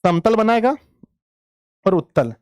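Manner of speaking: student answer voice. Pretend. Student voice answering, high pitch.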